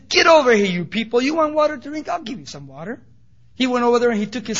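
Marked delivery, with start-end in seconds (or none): 0.1-3.0 mock angry scolding. Moses rebuking thirsty people, a hammed-up angry scolding. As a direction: snap at the crowd like an irritated leader. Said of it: "he came out with the wrong attitude".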